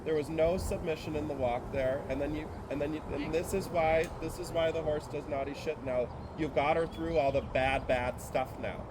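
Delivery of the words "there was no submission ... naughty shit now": firm, demanding coach; tough-love mentor. Real, not acted. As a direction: push her hard because she's capable. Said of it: "I'm tough on you".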